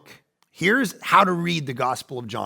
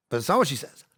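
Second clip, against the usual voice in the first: whisper; faster than usual. Real, not acted.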